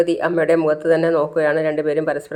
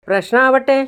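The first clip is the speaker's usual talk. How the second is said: sharply higher scornful snap; scornful retort; 8 semitones higher than usual. Acted. Mother snapping back at her son in a family quarrel, scornful. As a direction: dismiss him with contempt.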